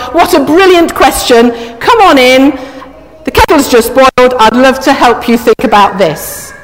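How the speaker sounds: a touch of breezy confidence; super confident. Acted. Reader acting a super confident host answering the neighbour, super confident. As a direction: welcome them in with assured enthusiasm. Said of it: "if you are super confident".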